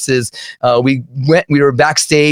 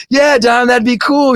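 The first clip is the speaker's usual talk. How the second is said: higher, eager yes; eager teen; 9 semitones higher than usual. Retold or imitated. The teen accepting a beer from Dime, eager. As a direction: play your sixteen-year-old self, thrilled.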